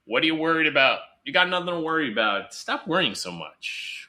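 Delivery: mock impatient reassurance; dismissive scolding. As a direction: wave away their fears impatiently.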